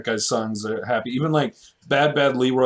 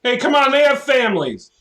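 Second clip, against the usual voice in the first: mock pleading; 9 semitones higher, 3 dB louder than usual. Mocking cop defenders.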